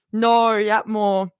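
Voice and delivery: slow, put-on Australian accent; lightly hammed Australian accent. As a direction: slip into a drawn-out Aussie accent. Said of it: "I just start speaking in an Australian accent".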